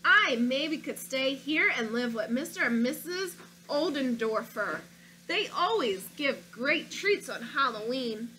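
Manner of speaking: put-on storybook read-aloud, childlike narrator; reading to children. Teacher reading a picture book to her class, storytelling voice. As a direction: read it like a stubborn little boy.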